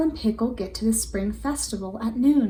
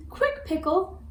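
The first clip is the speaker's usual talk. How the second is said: shouting; 8 semitones higher than usual. Acted. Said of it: "shouts Isabel".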